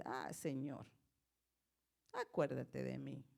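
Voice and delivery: low, soft, subdued prayer; meek plea. Acted. Believer asking the Lord to remember them, low meek plea. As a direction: murmur a humble plea, drooping. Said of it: "O usted le dice".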